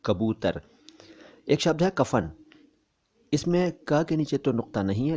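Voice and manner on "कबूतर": कबूतर as "kabootar", with front k; plain kaaf k. Shown as a demonstration. Teacher confirming the Urdu letter, कबूतर with plain k. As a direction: say कबूतर from kaaf, not qaaf. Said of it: "Urdu में कहते हैं काफ से".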